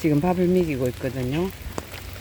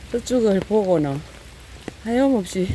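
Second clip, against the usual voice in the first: usual speaking voice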